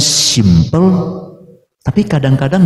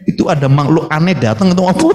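laughing. Retold or imitated. Mimics onlookers, laughing.

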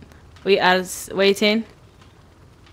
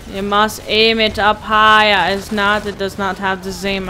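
mock stern teacher. Player lectures teammates like children, mock stern. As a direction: instruct them like a stern teacher.

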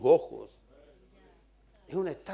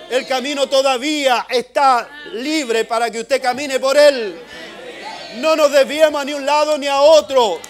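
predicación a voz en cuello, más aguda y fuerte; fiery preaching; 10 semitones higher, 18 dB louder than usual. Acted. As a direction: exhorta a la congregación con fuerza. Predica a toda fuerza. (el predicador exhorta a no desviarse, a gritos)

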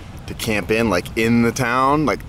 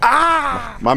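excited cry. Real, not acted. Rider cheering with his new fan late at night, an excited whoop. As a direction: let out a happy whoop.

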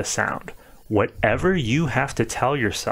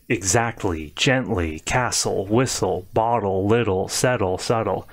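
isolated word drill. Shown as a demonstration. Teacher mimicking bad practice off the screen, rote listing. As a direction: rattle through the word list, each word falling alike. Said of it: "Don't practice that way".

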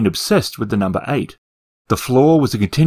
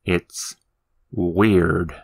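uneasy little demon; 5 semitones lower, 3 dB quieter than usual. Acted. Demon voice in his box.

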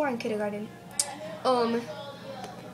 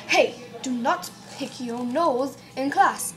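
British teacher. Pretend. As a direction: pretend British teacher telling off a pupil. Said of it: "act like a teacher".

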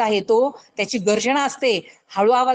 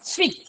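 high, soft squeaking rabbit sound; 7 semitones higher, 4 dB quieter, faster than usual. Shown as a demonstration. Teacher shows children a rabbit's squeak, high and soft. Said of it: "रॅबिटचा आवाज कसा असतो".

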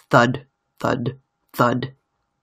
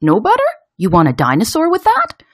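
raised, loud vendor's questions; busy seller calling to customers; popcorn man shouting; 9 semitones higher, 5 dB louder than usual. A narrator's reading. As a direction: call out each question, pitched up. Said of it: "the popcorn man shouting".

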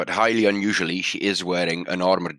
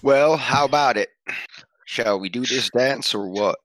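put-on Western accent; 4 semitones higher than usual. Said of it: "The consistency of your accent".

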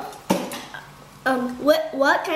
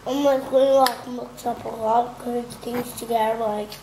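talking through a mouthful; chewing while talking; mouth full; 4 semitones lower than usual. Real, not acted. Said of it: "talking with your mouth full".

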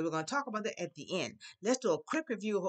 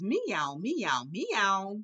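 three swooping mock meows; playful imitation of cats; much slower than usual. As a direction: meow like a cat for the class.

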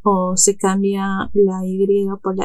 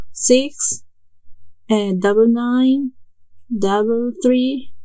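"double nine, double three" spoken slowly, number by number; careful dictation pace for a learner; slow digit-pair demo; much slower than usual. Shown as a demonstration. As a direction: read it out slowly in pairs, like dictating a phone number. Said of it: "podéis decirlo de esa manera".

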